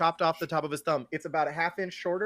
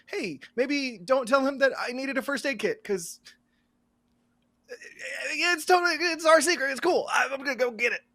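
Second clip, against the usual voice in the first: character voice; 12 semitones higher than usual. Acted. Player in character to Jed.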